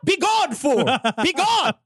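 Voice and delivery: put-on slow, hammy old English insult, rising to high cries; hammy Shakespearean roast; old-timey voice. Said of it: "your worst old-timey voice".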